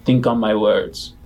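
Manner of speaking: deep gravelly voice. Acted. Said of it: "in a deep kind of gravelly voice".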